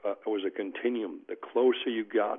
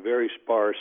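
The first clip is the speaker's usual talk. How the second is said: "very sparse" pressed out a little louder; stress on sparse; 6 dB louder than usual. Real, not acted. Lawyer underlining how thin judicial precedent is, stress on "sparse". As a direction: lean firmly on "very sparse". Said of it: "I emphasize the word sparse".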